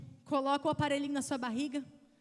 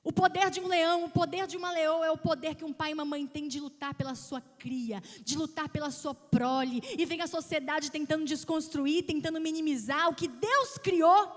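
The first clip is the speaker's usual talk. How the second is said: preaching; 2 semitones higher, 6 dB louder than usual. Acted. Preacher rallying parents about their power, loud. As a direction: thunder it from the pulpit.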